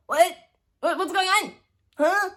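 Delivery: high, startled mock confusion; acted bewilderment. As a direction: play baffled, in quick high bursts. Acts out her alarmed bewilderment.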